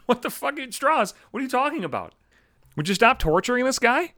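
high, laughing scold; laughing at a coworker, telling her to stop; laughing disbelief. Real, not acted.

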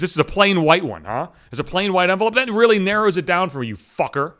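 scornful thanks to the phone rep; sarcastic mock gratitude. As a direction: lay the sarcasm on thick. Sarcastic rant at phone agent.

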